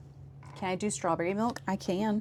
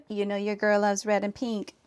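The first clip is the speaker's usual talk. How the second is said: put-on Valley Girl voice. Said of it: "I don't like the way you made me sound".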